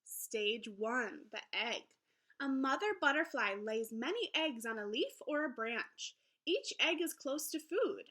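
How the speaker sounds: lively, sing-song picture book read-aloud; reading to children. Acted. Teacher reading a butterfly book to her class, lively storybook voice. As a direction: read it brightly to young listeners.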